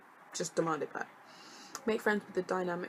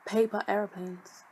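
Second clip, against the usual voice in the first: slow, louder disbelief; indignant; 2 semitones higher, 7 dB louder, slower than usual. Acted. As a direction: spell it out in disbelief. Indignant repeat of complaint.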